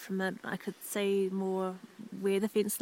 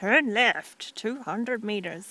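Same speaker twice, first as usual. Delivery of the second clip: gps announcer voice, louder; 2 semitones higher, 6 dB louder than usual. Asked to make up a GPS navigation voice, giving a direction in a made-up GPS navigation voice. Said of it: "make up a GPS navigation voice".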